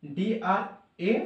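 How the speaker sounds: ডিআরএ spelled letter by letter, very slowly; spelling out letters. Shown as a demonstration. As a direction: spell out ডিআরএ, slow and deliberate. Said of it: "drama হবে".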